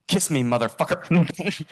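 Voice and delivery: slow, hammy celebrity impression; Richard Simmons. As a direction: draw the command out loud and high. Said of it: "I kinda do a decent impression".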